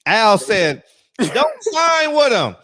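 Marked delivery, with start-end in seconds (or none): 1.2-2.5 slow, loud, high plea; imitating Al. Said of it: "that's how Al talk".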